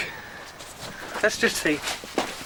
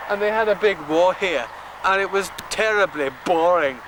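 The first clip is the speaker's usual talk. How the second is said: hammed-up Scottish accent, tour guide bluster; lightly done Scottish accent; mock Scottish accent. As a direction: carry on the jokey Scottish guide act. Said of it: "Why are you speaking in a Scottish accent?".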